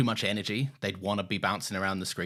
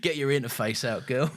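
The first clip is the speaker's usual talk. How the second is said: sleazy creep voice; 3 semitones higher than usual. Acted. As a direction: lay on the creepiness. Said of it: "that's a creep voice".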